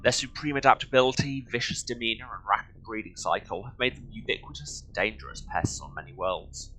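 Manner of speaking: measured documentary-style read-aloud. Acted. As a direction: read it out like an encyclopedia entry. Reads game codex aloud.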